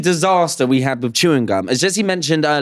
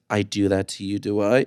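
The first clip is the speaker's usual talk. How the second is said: low mock guard; 6 semitones lower, 5 dB quieter than usual. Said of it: "And he says".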